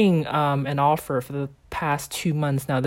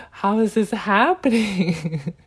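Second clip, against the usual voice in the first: slow, raised, tickled disbelief breaking into laughter; amused disbelief; 4 semitones higher, slower than usual. Retold or imitated. Finding the rule situation very funny, slow amused disbelief. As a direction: stretch it out, about to laugh. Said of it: "found the situation very funny".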